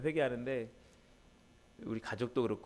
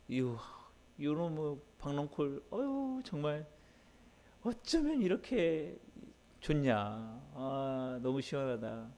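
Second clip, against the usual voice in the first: Jonah voiced delighted and cooing over his gourd vine, pitch swinging up; pleased Jonah; 4 semitones higher, slower than usual. Preacher voicing Jonah enjoying the vine's shade, delighted. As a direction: savour the shade, drawn out on 어쩌면 이렇게. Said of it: "흐뭇한 거예요".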